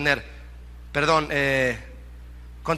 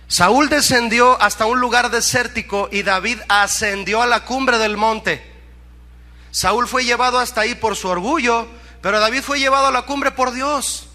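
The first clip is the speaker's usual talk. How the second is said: emphatic preaching, raised voice; prédica enérgica; 5 semitones higher, 5 dB louder than usual. Real, not acted. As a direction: drive the contrast home to the congregation. (predicación enérgica con voz alzada)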